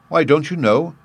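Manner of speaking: put-on high-pitched surprised little girl. A narrator's reading. Dorothy learns he has never heard of Oz, surprised. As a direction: ask with pitch lifted in surprise. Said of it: "she returned in surprise".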